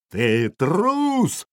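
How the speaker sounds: high, drawn-out accusing cry; furious yell. A narrator's reading. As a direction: hurl the insult as the enraged jarl. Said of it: "завопил Ярл".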